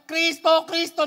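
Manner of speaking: high, loud desperate calls; frantic high invocation; falling cries. Acted. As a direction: shout for Christ as you drop. Christian calls out while falling.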